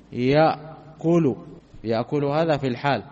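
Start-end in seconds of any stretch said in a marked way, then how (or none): 0.1-1.4 slow example word. Shown as a demonstration. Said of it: "نقول مثلًا".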